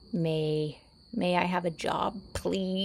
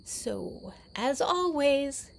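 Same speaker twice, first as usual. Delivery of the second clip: mock cat sign-off; 3 semitones higher, 5 dB louder, much slower than usual. Sign-off in the cat's voice.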